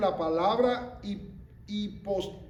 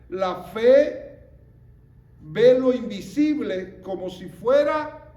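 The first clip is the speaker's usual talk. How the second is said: preaching proclamation; 2 semitones higher, 7 dB louder than usual. Acted. Preacher proclaims key line.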